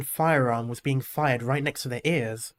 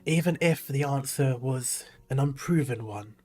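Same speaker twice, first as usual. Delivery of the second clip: put-on old man voice. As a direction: speak as a grave elderly priest. Old man continues sermon.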